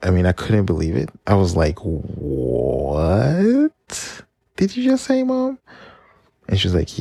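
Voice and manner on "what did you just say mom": pitched way up in disbelief; high incredulous what did you just say; shocked kid. Retold or imitated. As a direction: squeak it out like a stunned child. Shocked child hearing news.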